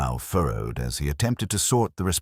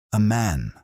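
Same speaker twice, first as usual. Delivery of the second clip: relishing accusation; 7 semitones higher, 4 dB louder than usual. A narrator's reading. Missus Penchlow relishing her gossip to the inspector. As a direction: savour it, a touch louder and higher. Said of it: "with the relish of one delivering an accusation".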